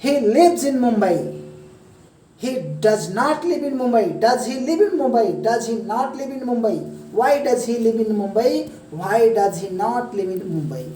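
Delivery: very slow, each English word spaced out; slow demo. Shown as a demonstration. Teacher slowly modelling the English sentences, slow. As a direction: lay every word down slowly and clearly. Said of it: "मैं तो समझाने के लिए आपको slow बोल रहा हूँ".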